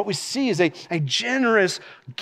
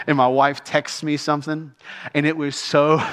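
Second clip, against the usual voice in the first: amused laughing; 3 semitones lower than usual. Real, not acted. Cracking up while retelling a funny memory.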